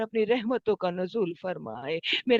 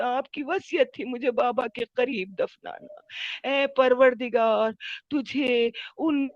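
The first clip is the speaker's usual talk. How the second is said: prayer. Real, not acted. Closing prayer.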